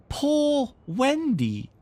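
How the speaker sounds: very high, slow, drawn-out moan; moaning bird. Acted. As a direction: sigh it like a sad bird. Mimicking the bird's moan.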